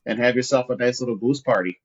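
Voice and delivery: a light, folksy hint of a Minnesota accent; mock Minnesota accent. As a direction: play the Minnesota hunter, hamming it up gently. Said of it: "are we doing your Minnesota Hackett".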